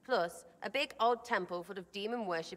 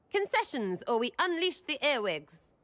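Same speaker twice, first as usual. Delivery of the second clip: mock threat; 4 semitones higher than usual. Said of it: "Josephine should add that to her paper threats".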